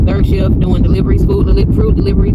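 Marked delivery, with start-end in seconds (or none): 1.2-2.4 tired slip of the tongue; stuttering. Real, not acted. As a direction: trip over the words. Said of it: "I'm, I'm stuttering".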